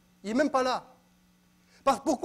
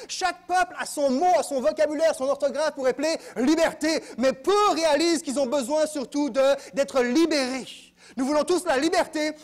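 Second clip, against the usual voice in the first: raised, higher preaching voice; impassioned preaching; 4 semitones higher, 4 dB louder than usual. Real, not acted. Preacher telling congregation they need to be freed, impassioned. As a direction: drive the point home with fervor.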